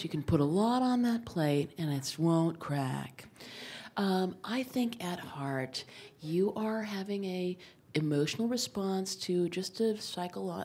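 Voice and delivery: a hint of a gentle Scandinavian doctor; gentle, soft doctor. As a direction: speak softly to reassure her like a kind doctor. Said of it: "here's the speech".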